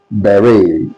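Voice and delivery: "beret" said BEH-ray, silent t; "beret" with no t, ending in ay; correct beret. Shown as a demonstration. Teacher modelling "beret" for the class. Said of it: "is pronounced as".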